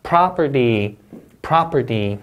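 "property" slow, with stress on PROP; stress demo. Shown as a demonstration. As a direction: lean on the first syllable of "property". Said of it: "강세주에서 한번 단어 읽어볼게요".

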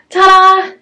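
high bright ta-da; ta-da reveal. Pretend. Showing the hung curtain to viewers, a high ta-da. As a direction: present it proudly.

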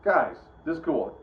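a flat, matter-of-fact remark; deadpan calm. Retold or imitated. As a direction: say it casually, with no excitement at all. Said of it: "he was just like".

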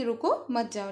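"रुको", short break, then "मत जाओ" joined; pause after रुको. Shown as a demonstration. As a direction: split it after रुको to mean don't go. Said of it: "मतलब वो उसको रोक रही है". ("रुको" के बाद रुककर "मत जाओ")

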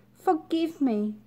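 high pleading plea; high, begging tadpole. Acted. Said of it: "begged the tadpole".

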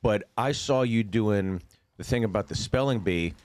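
ordinary delivery

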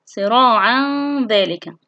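long nasal hum joining صراعًا to ذلك; tanween ikhfa. Shown as a demonstration. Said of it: "هو تنوين أتى بعده ذال". (إخفاء التنوين بغنّة في صراعًا ذلك)

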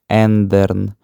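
ендерн said slowly with a clear German e; German word demo. Shown as a demonstration. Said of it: "Воно читається як". (ендерн німецькою вимовою)

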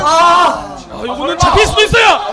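loud, high shout; excited play call. Real, not acted. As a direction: call the catch at full voice. Live call of a pop fly.

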